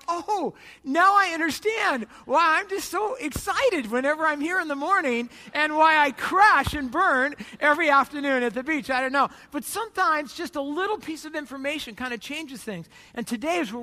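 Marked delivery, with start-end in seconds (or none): 0.1-8.9 sudden realization. Retold or imitated. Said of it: "I'm like".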